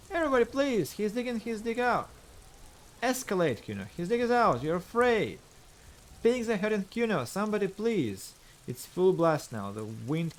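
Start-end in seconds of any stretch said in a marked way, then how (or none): 0.1-8.3 high, loud desperate yelling; frantic shouting. Acted. Kid screaming to the neighbours, high and loud. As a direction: shriek to the whole street.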